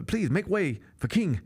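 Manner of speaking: mock French cop accent. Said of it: "I can't do the accent".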